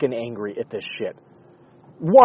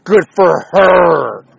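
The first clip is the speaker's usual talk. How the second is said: mock approving; 4 semitones higher, 11 dB louder, much slower than usual. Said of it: "everybody's just like".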